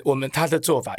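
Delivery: usual speaking voice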